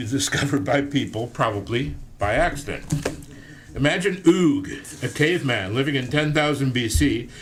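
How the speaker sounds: lively storytelling read-aloud; book reading. Acted. Reads his book aloud.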